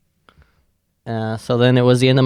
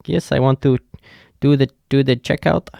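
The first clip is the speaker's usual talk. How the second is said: light imitation of a Russian accent; halting Russian-accented English; mock Russian accent; 3 semitones higher than usual. Russian guest asking the clerk to check out, lightly mimicked Russian accent. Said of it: "Or however Russian people".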